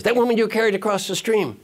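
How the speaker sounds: high, insistent mock outrage; hammed-up exasperation, pitched high; angry monk. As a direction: spell it out indignantly. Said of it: "The angry monk says".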